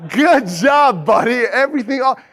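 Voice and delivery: bright, upbeat praise with a laugh in it; fake cheerful encouragement. Boss cheering on a struggling new intern, upbeat. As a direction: act supportive over the phone. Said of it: "Externally, I'm like".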